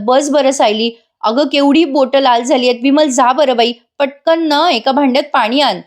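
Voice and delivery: acted motherly worry; anxious fussing. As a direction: take charge after a small accident. Acted aunt fussing, sending for water.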